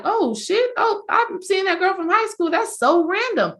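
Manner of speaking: high, startled exclamation; shocked surprise. Retold or imitated. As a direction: blurt it out in shock at seeing her. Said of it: "I'm like".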